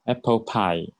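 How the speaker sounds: apple pie ending without an S. Shown as a demonstration. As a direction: model apple pie, open vowel at the end. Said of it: "这边没有加S".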